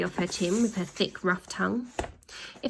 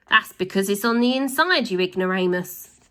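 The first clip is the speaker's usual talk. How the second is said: a louder mock bellow; bellowed back; 4 dB louder than usual. Wife bellows back at husband, louder. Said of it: "bellowed back".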